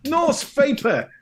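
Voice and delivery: high, loud, stretched-out greeting; big sing-out welcome; hailing a viewer. Real, not acted. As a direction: call out the name with gusto.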